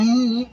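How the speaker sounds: high mock whimper in answer; imitated whimper. Shown as a demonstration. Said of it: "I'm gonna cry".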